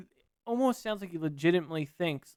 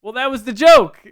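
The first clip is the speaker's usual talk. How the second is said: exasperated outburst, loud and higher; too loud; 10 semitones higher, 18 dB louder than usual. Real, not acted. Host protests to co-host that the offensive line was a joke, too loud. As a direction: blurt it out far too loudly. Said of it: "I said that too loud".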